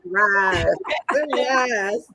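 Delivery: "rice" with a broad, drawn-out country vowel; country pronunciation. Shown as a demonstration. Showing the word she could not say, country "rice". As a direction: say "rice" the old farm way. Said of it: "I could not say rice. I would say".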